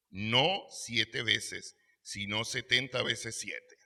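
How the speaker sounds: "No siete veces" drawn out very slowly; deliberate, slowed proclamation; slow emphatic quote. Acted. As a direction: weigh each word of Jesus' answer. Quoting Jesus' answer.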